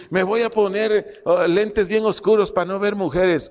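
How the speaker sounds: mock vow. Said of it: "va a decir".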